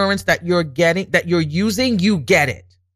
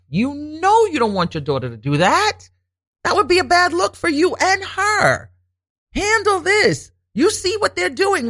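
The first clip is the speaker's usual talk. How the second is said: higher, otherworldly voice of God; God speaking; 11 semitones higher than usual. Retold or imitated. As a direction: speak as God warning her. Voicing God's warning in prayer.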